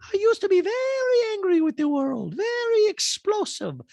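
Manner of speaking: hammed-up Borat-style delivery; Borat-like Bosnian accent. Host imitating Diana's talking head in a Borat-like accent. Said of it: "a Borat element to this".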